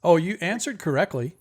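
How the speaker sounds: lightly voiced sphinx, lively; sphinx's reply. Sphinx answers the players' wrong guess, lightly acted reply. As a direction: correct them with a lilting, lightly acted reply. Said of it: "She said you answered correctly".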